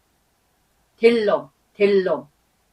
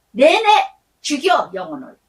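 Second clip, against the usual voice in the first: stern rebuke; 3 semitones higher, 4 dB louder than usual. Acted. Scolding parents who crush children.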